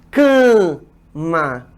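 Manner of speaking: "cama" split slowly, long nasal "kããã... ma"; drawn-out nasalization. Shown as a demonstration. Teacher shows why we say it so, drawn-out nasalization. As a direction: stretch the nasal first syllable of "cama", then "ma". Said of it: "É a tal nasalização".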